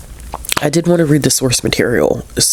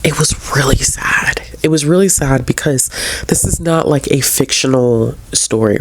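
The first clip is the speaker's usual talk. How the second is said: emotional whisper. Real, not acted. Reviewer moved by the ghost story, whispering sadly. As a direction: let it drop to a breathy near-whisper as the feeling rises. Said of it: "I'm getting emotional now".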